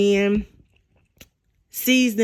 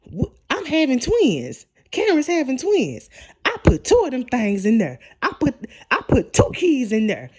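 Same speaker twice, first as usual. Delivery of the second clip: high, animated mock announcement; imitating a thrilled dad-to-be; excited boasting; 4 semitones higher than usual. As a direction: act out bursting with big news. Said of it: "What's all the excitement?".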